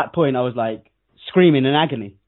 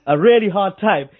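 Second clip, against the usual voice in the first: calm doctor; 7 semitones higher than usual. Retold or imitated. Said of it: "the doctor said".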